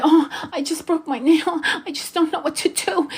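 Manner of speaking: mock a helpless damsel in a high little voice; mock bimbo. Mocking the bimbo men rush to help, a high, helpless ditzy voice. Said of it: "going for the little pigtail bimbo".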